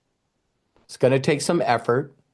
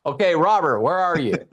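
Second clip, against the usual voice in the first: mic host announcing; 5 semitones higher than usual. Retold or imitated. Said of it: "some guy gets up on the mic".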